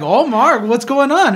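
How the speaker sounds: a hint of a friendly coworker asking; coworker Letty. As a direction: lightly voice a curious coworker.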